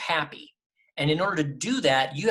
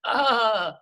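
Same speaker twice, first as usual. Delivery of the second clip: higher, louder dopey drawn-out groan; mock clueless "ah"; 7 semitones higher, 5 dB louder than usual. Mimicking a fired actor who didn't know what to do, drawn-out clueless noise. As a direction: stall on a long helpless "ah".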